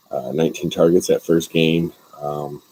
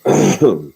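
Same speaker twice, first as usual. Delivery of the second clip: clearing throat after a sip; 4 dB louder than usual. Real, not acted. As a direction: clear the throat mid-drink. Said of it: "Sorry, I'm drinking the B L O".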